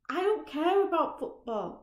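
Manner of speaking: shouted high and loud, every word hurled; I don't care about football, shouted high and loud; angry shout. Acted. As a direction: yell it at him in fury. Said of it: "Roger shouts".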